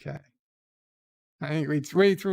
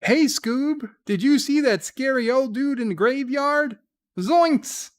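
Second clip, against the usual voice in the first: much higher, louder squeaky cartoon voice; odd new voice; 10 semitones higher, 5 dB louder than usual. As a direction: squeal it way up high. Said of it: "I don't know what to call that voice".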